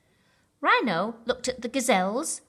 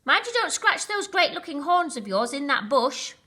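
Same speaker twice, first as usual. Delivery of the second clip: friendly Gnu; 7 semitones higher, 4 dB louder than usual. Acted. Gnu teases Rhino.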